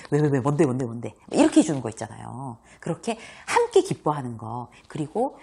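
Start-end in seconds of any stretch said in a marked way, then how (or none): 0.1-1.1 quick, eager "왜, 왜, 왜, 뭔데"; sharing a friend's joy; eager shared excitement. Shown as a demonstration. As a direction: lean in, excited to hear the news. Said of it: "같이 막 웃으면서".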